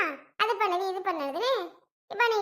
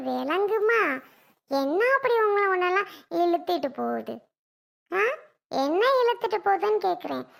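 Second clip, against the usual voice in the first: scolding mother-in-law. Acted.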